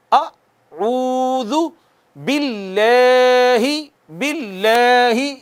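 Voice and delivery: اعوذ with a slight short آ, then slow thin باللہ; Quranic recitation. Shown as a demonstration. Teacher models the full phrase, slow chant. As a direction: chant slowly, light لل. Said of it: "معمولی سا".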